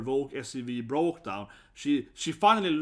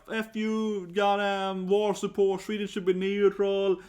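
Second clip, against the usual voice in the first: retold outburst; 5 semitones higher, 4 dB louder, slower than usual. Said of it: "She just jumped up and was like".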